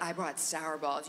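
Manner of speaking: put-on low, soft conspiratorial kid; whisper yell. Kid confiding a sour-ball stash to a friend, whisper yell. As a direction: slip a secret to a friend, hushed. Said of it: "lot of whisper yells as a child".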